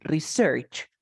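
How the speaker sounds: "Research" stressed on the end, re-SEARCH; verb stress. Shown as a demonstration. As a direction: lean on the last syllable of "Research". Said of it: "As a verb".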